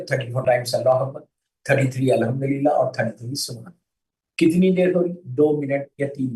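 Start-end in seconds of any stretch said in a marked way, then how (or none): 0.0-3.7 fast, routine run through the tasbih count; quick tasbih recitation. Shown as a demonstration. Preacher showing how to recite after prayer, fast rattle. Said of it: "जैसे पढ़ते".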